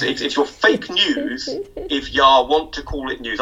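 lightly voiced Texan drawl on ya; a half-hearted try at a Texan accent; mock Texan accent, barely put on. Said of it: "I'm not gonna do the accent".

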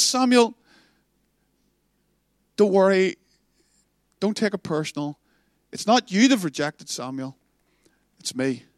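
gentle comfort fading to a broken whisper; heartbroken whisper. Acted. God comforting Samuel, fading from gentle to a broken whisper. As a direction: let the hurt sink into a whisper.

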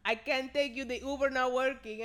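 mock Spanish-accented excuse. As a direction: mimic the driver's Spanish accent. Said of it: "This is all in a Spanish accent".

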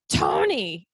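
a light imitation of a psychotic Elmo. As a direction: call the name like a mildly unhinged Elmo. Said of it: "in that voice".

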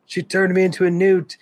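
high, loud mock peasant shouting; angry villager mob. Monty Python villagers accusing a witch, high shrill shout. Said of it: "they're like".

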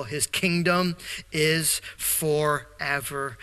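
slow, solemn hymn reading; poem recitation. Acted. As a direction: recite each line of the hymn with weight. Recites Luther's hymn text.

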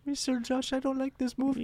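little girl with a put-on Hispanic accent, high up; a daughter greeting dad in a thick Hispanic accent; high mock Hispanic accent. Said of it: "Stereotypical Hispanic accent".

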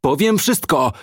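high-pitched panicked interruption; desperate hysterical cry; hysterical shouting. A narrator's reading. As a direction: cut in high and frantic. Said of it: "wykrzykując histerycznie".

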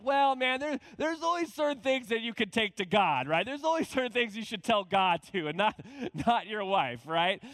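hammed-up know-it-all advice; mock advice. Mocking the friend's lesson.

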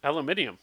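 ALUMINIUM with five syllables, ending -ee-um; British pronunciation of aluminium. Shown as a demonstration. Asked how they say it, British pronunciation. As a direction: say "Aluminium" the British way, stress on MIN. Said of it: "how do you say aluminum?".

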